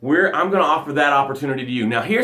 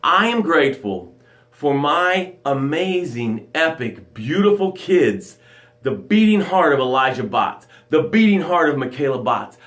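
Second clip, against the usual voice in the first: gratitude demo. Shown as a demonstration. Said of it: "This is how it sounds".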